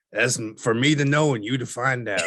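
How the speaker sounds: laugh, then a playful secretive reply; coy laugh. Acted. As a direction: keep the secret with a grin. Coy reply to the muffin question.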